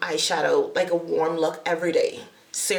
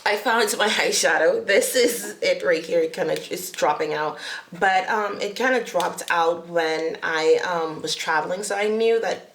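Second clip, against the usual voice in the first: tripping over words, restarting; stuttering. Real, not acted. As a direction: stumble and restart phrases. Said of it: "I don't know why I'm stuttering".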